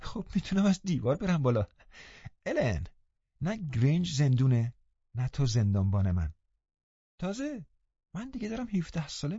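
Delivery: Catherine, laughing. Acted. Catherine to Ellen, sure she can nurse Linton, girlish and teasing. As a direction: play a lively young girl pleading with a light laugh. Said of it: "خنده کنان گفت".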